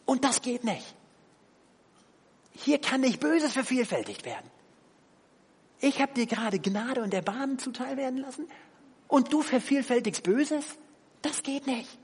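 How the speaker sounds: firm king. Retold or imitated. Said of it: "Er sagt".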